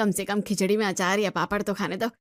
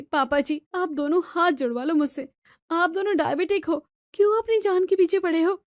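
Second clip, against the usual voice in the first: higher, rising in alarm at the in-laws; exasperated daughter-in-law scolding the elders; exasperated pleading; 6 semitones higher than usual. Acted. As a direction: throw up her hands and scold them, pitch climbing.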